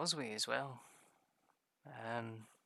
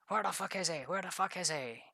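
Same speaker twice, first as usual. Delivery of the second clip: mock angry giant; 5 semitones higher, 3 dB louder than usual. Giant searching in retold story.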